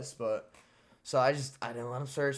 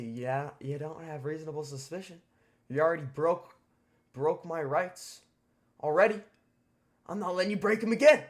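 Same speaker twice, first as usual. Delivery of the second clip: rising higher and louder to a fast finish; heated protest, building; 4 semitones higher, 7 dB louder than usual. Retold or imitated. Teen telling staff they broke his rights, building loud. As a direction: build from argument to outburst.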